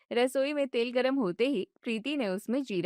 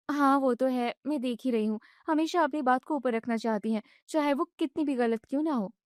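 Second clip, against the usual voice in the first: put-on upset young wife; 2 semitones higher than usual. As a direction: vent it all at once. Wife agrees.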